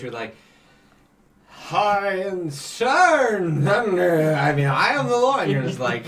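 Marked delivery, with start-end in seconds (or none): 1.5-5.4 high, loud mock greeting; high squeaky imitation. GM imitating the player's high voice, mock squeak. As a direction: squeak it out like an overexcited herald. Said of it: "a roller coaster of vocals".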